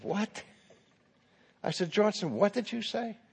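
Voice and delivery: soft, ominous questioning; quiet challenge. Retold or imitated. Professor quietly challenges the protester.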